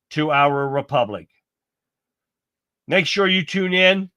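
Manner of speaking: measured, declamatory scripted address; formal sign-off read. Acted. Host closing tonight's show for fellow truth seekers, formal sign-off read. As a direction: deliver a formal closing statement, pausing between phrases.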